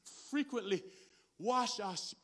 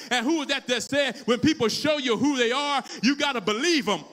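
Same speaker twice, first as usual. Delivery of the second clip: emphatic sermon, building in drive; forceful preaching; 2 semitones higher, 6 dB louder than usual. Real, not acted. Preacher warns church about people who hurt them, forceful preaching. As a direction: press the warning home to the congregation.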